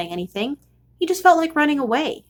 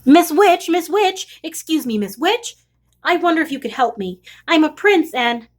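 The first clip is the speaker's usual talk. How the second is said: calling out; 5 semitones higher than usual. Acted. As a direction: hail the witch politely. Prince calling out to witch.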